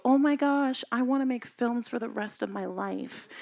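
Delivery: imitating her younger thrilled self; starstruck. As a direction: burst out with new passion. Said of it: "I hear my voice go".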